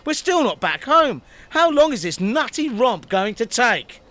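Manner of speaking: mock exasperated whine; whiny Zuckerberg. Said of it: "curses Zuckerberg".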